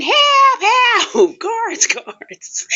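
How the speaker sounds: high, loud mock cry for the guards, fading out; imitating a scared inmate calling the guards; retold scream for help. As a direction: shout for the guards in a panic. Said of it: "somebody was screaming".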